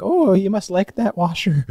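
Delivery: high, slow, loud sing-song lady voice; imitating a strange old lady; mocking weird lady. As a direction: parody a creepy stranger's chirpy tone. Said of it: "And she's just like".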